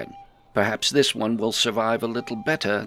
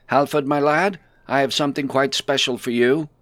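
louder, friendly call across the table; 8 semitones higher, 10 dB louder than usual. Acted. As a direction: call the boy over, warmly. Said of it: "Bodo nodded and called out".

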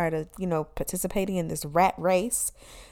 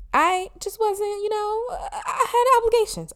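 laughing through the words, much higher; 12 semitones higher than usual. Real, not acted. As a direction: squeeze it out mid-laugh. Laughing at her own story.

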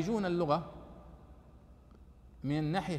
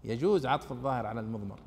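lower, patient correcting voice; calm correction; 5 semitones lower than usual. Acted. Teacher answering the grammarian's rule, lower and patiently firm. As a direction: set the grammarian right gently. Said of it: "نقول: لا، معليش، قاعدتك أنت عدلها".

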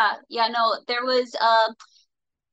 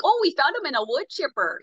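put-on lilting, higher-pitched Minnesota accent; 5 semitones higher than usual. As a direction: imitate a Duluth or Fargo local with a Minnesota accent. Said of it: "Minnesota, Duluth, Fargo, whatever accent".

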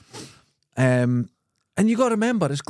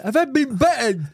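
imitating worried friend; 10 semitones higher than usual. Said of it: "He went".

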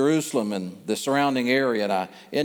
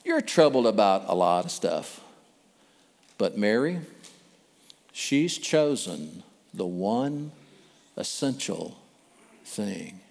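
low, soft and slow reassurance; calm; 5 semitones lower, 3 dB quieter than usual. Acted. Jesus calmly answers the upset Martha, soft and slow. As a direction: gently settle her down. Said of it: "Jesus just very calmly says".

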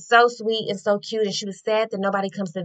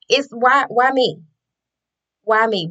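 mock outraged; 3 semitones higher, 6 dB louder than usual. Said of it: "I started to get mad".

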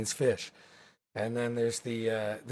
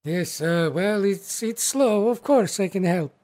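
lightly voiced orc hostess with an Eastern European lilt, louder and higher; 6 semitones higher, 5 dB louder than usual. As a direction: play the hearty orc hostess, a touch accented. Orc hostess answering Magma.

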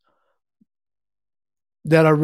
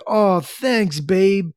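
lightly voiced, higher thanks to a partner; imitating grateful girlfriend; 3 semitones higher, much slower than usual. Woman handed homemade espresso by her man, imitated thanks. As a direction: do a mock-grateful girlfriend, pitched up.

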